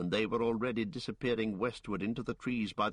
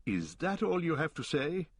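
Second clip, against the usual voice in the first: hard, unkind question; stern Aragorn; 7 semitones higher than usual. Acted. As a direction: press him coldly. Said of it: "looking hard and not too kindly".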